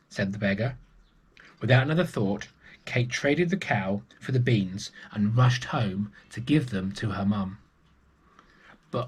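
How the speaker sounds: put-on lively read-aloud voice for children; storybook narration. A narrator's reading. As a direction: tell it like a bedtime story. Storyteller reading a picture book.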